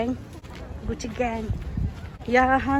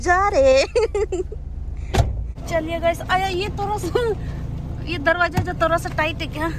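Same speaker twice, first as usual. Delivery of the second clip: laughing; 7 semitones higher than usual. Real, not acted. Squeezing through tight door, laughing.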